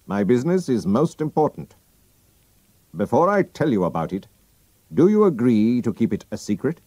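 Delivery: a hint of a grave foreign count; solemn, pressing for secrecy; lightly voiced nobleman. Masked count asks Holmes and friend to keep secret, lightly voiced.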